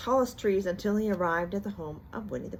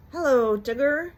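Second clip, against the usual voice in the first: cheerful hello; 7 semitones higher, 8 dB louder than usual. A narrator's reading. Pooh greeting.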